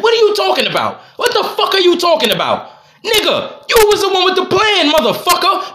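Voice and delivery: high, laughing disbelief; incredulous laughing outburst. Real, not acted. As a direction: laugh at how absurd it is while ranting. Incredulous rant about his wife.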